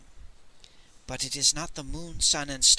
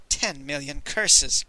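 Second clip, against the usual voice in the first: groaning; slower than usual. Acted.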